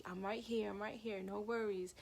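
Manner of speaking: hushed, voiceless whisper; sister whispering. Retold or imitated. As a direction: breathe it like a secret voice in the head. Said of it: "She's like".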